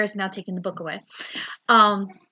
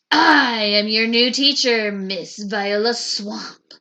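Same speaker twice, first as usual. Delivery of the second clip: stern witch teacher; 8 dB louder, slower than usual. A narrator's reading. Mean new teacher introduces herself.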